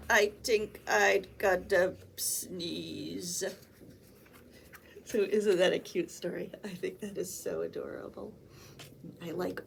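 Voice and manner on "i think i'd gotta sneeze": slow pre-sneeze voice. Acted. Hog about to sneeze.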